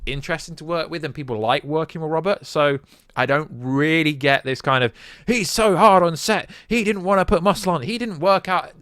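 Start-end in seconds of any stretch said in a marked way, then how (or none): 5.3-8.7 mocking. Mocking the clickbait story's claims.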